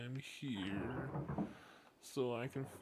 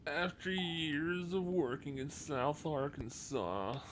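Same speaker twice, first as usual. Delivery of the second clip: dopey voice. Retold or imitated. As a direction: play it dim and dopey. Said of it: "that dopey voice".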